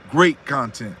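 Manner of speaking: usual speaking voice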